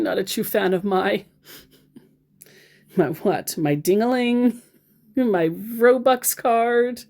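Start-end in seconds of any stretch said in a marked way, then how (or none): none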